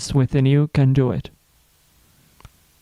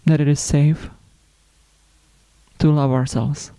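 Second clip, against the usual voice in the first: unhurried spiritual reflection, long pauses between phrases; guided meditation. Acted. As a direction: let each phrase settle before the next. Leads a self-love reflection.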